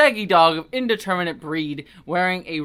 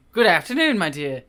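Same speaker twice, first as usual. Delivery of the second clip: British vicar; 4 dB louder than usual. Acted. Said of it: "all the British accents here".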